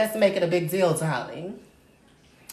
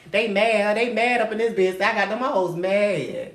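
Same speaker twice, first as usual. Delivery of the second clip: louder mocking taunt; louder gloating at haters; 3 semitones higher, 5 dB louder than usual. Real, not acted. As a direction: rub it in their faces.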